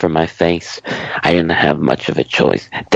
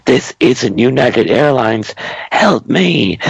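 shout; 6 semitones higher than usual. Acted. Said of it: "I shouted for anyone to hear".

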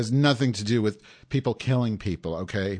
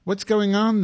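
much higher, eager and bright; over-the-top eager greeting; excited; 7 semitones higher than usual. Real, not acted. Excited answering the call.

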